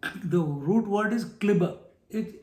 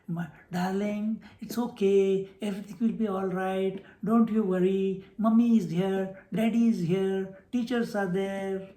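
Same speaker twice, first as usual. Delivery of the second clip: coddling parent. Pretend. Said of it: "cannot be spoken".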